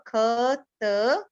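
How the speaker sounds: ख and त as separate drawn-out letter sounds; sounded out. Shown as a demonstration. Teacher spelling a word by sound for children, sounded out. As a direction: sound out ख, then त, with a gap. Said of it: "पीछे जो हमारी sound दे रहा है वो त".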